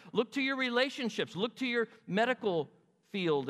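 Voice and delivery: high-pitched sarcastic dismissal; scornful challenge. Acted. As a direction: send them off to their false gods, pointedly. Acting God sending them to idols.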